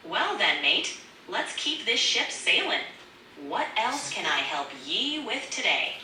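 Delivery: pirate sailor's lilt; light, playful pirate accent. Pretend. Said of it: "a pirate accent".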